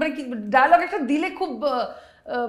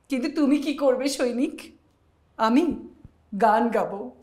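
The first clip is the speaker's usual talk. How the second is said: jatra dialogue. Acted. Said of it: "যাত্রার একটা script দেখলাম".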